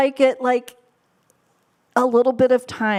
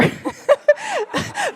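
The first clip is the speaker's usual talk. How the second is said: bright high burst of laughter; short giggle at the joke. Real, not acted.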